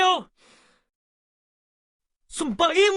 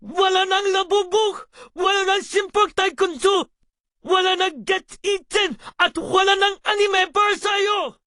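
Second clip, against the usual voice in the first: scolding parent. Acted. Parent scolding crying child.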